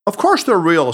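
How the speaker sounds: firm, insistent "Of course they're real"; emphatic. A narrator's reading. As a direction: assert "Of course they're real" as beyond all doubt. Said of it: "said Tanaka emphatically".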